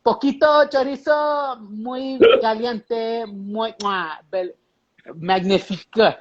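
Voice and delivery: hammed-up Mexican accent, high and drawn out. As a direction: savor each word in a mock Mexican accent. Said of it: "say it with that Mexican accent".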